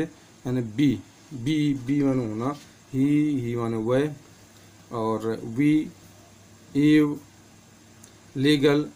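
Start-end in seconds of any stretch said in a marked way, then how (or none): 0.6-4.1 बी and ही with a long, drawn-out ee; long ee sound. Shown as a demonstration. Teacher giving examples of the big ee sound, long ee. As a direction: slowly stretch the vowel in बी and ही. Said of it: "ई का उच्चारण बड़ी की ध्वनि में".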